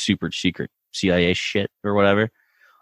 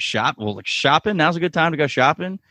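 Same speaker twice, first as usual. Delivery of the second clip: lightly voiced eager teammate, fast and higher; playful high mock voice; 6 semitones higher, faster than usual. Retelling MM's line about going shopping, quick and high. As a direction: rattle it off quick and bright-eyed, up high.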